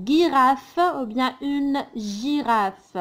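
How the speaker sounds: "girafe" first with a hard G like "guirafe", then with a soft J sound. Shown as a demonstration. Teacher giving pupils a wrong and a right "girafe" to choose from. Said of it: "on a une girafe".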